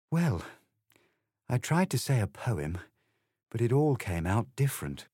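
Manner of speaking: mildly downcast, halting admission; a touch of melancholy between pauses. Acted. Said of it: "in a very melancholy voice".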